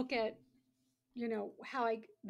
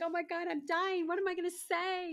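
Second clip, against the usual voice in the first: higher, louder, breathless excitement; giddy panic; 7 semitones higher, 5 dB louder than usual. Retold or imitated. Young actress to roommates, higher and louder in giddy panic. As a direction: gush like a starstruck kid. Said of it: "I'm like".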